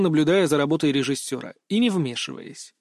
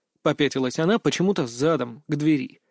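ordinary delivery

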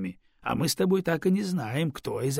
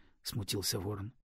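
plain reading voice

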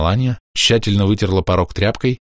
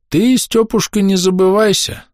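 put-on high, louder quavering old man; 12 semitones higher, 3 dB louder than usual. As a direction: warn him with a reedy quaver. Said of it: "дребезжащий голос Захария".

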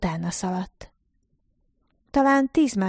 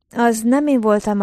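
sharp denial; 4 semitones higher, 7 dB louder than usual. A narrator's reading. Narrator denies sharply.

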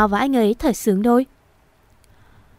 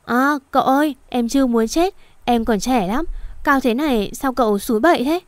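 scared cry; 3 semitones higher than usual. Acted. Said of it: "Nó hét lên".

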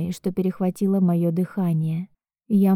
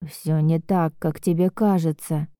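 stern; 2 semitones lower than usual. Acted. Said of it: "говорит строго".

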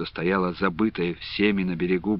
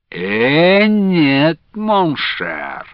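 loud laughing; 7 semitones higher, 5 dB louder, much slower than usual. A narrator's reading. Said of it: "захохотал оглушительно барин".

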